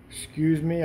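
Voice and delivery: hiccuping between words; hiccups. Real, not acted. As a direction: talk through the hiccups. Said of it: "I have the hiccups".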